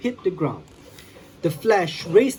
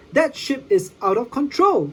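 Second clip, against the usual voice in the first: alarmed hero; 7 semitones higher than usual. Acted. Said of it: "he said".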